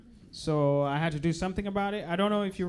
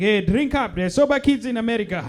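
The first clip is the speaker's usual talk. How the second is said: a hint of a scolding parent, louder; 3 semitones higher, 6 dB louder than usual. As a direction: urge the kid on like it's chores. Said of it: "African parents yelling at their kids".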